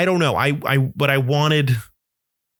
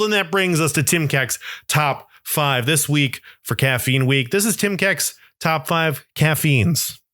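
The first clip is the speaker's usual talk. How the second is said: higher-pitched show-host intro; segment announcement; 4 semitones higher than usual. Real, not acted. Host introducing his weekly top five, announcer style. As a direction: announce it like a countdown title, drawn out at the end.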